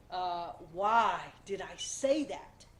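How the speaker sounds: puzzled self-talk. Retold or imitated. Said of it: "and thought to yourself".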